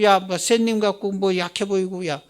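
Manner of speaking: worldly people taunting a Christian, loud and jeering; taunting challenge. Retold or imitated. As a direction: needle the Christian, scoffing. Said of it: "내가 볼 때는 기독교인들".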